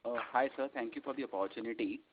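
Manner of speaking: faint and far from the mic; barely audible, speaking too softly; too quiet. Real, not acted. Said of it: "Can you speak louder".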